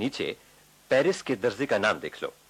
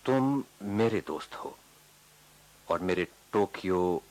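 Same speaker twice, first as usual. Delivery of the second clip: sincere; 3 semitones lower than usual. Acted. Friend reassures Harish of their friendship.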